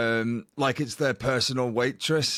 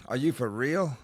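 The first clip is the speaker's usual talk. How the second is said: put-on half-hearted American accent, disbelieving question; clumsy mock American accent; badly faked American accent. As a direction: have a weak go at an American accent. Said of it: "I can't even do the accent".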